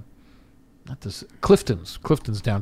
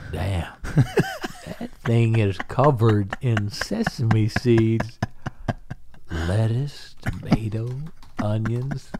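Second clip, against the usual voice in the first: slow, soft stoned drawl; lazy laid-back drawl; McConaughey impression; 4 dB quieter, slower than usual. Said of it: "he's like".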